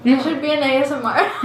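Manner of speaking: giggling while joking; laughing. Real, not acted. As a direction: laugh through the joke. Joking about eating sounds.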